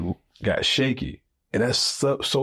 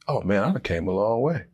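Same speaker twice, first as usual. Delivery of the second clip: boastful; 4 semitones higher than usual. Retold or imitated. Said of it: "start to think".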